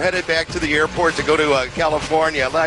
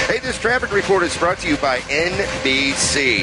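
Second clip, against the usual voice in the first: ad read. Acted. Reads sponsored ad.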